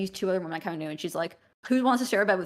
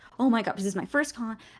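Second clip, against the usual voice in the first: mock panicked, frantic panic-attack voice; 3 semitones higher than usual. Telling of a panic attack while trying to park, retelling a panicked outburst. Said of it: "started having a panic attack and I was like".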